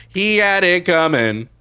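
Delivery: high, loud, slow menacing line; sinister mother. Pretend. Streamer voices the killer mother, slow, high and loud. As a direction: say it like the mother who killed him.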